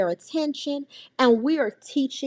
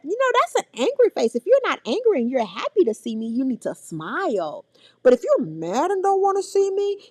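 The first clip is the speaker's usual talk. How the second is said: coaxing aunt; 5 semitones higher than usual. Retold or imitated. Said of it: "I was like".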